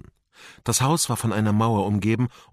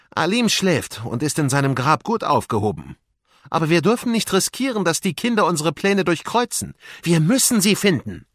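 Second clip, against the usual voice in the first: higher, emphatic villain's voice; scheming vizier, insistent; 7 semitones higher, 4 dB louder than usual. Acted. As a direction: press the servant to act. Wesir spricht über seine Pläne. (eindringlicher, herrischer Wesir)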